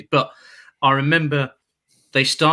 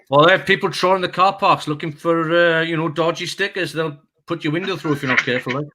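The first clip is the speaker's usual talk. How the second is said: put-on Welsh accent; 3 semitones higher than usual. Car park attendant warning a Birmingham fan, in a Welsh accent. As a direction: warn him in a lilting Welsh accent. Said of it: "your Welsh accent's better than mine".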